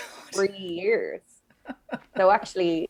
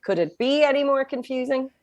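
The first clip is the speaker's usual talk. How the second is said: higher-pitched mock American sitcom accent; Friends-style American accent; 5 semitones higher than usual. Dubliner mocking accents learned from Friends, American sitcom accent. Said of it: "our accent was like".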